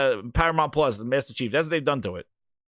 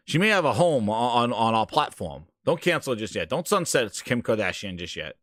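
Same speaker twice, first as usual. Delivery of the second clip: mock Phil Spencer; 6 semitones lower than usual. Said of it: "He goes".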